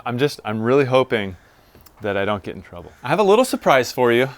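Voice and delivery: ordinary talk, nothing marked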